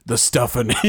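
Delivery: horror trailer voice. Acted. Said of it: "the trailer voice".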